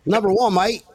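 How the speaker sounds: put-on British accent slipping into Australian; mock Brit with an Australian twang; attempted British accent, Australian-sounding. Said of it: "That is an Australian accent".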